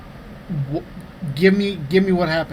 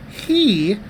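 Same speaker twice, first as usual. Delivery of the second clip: very slow, drawn-out mock remark; quoting his partner; 3 semitones higher, much slower than usual. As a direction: stretch out each word as you imitate her. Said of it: "Amy goes".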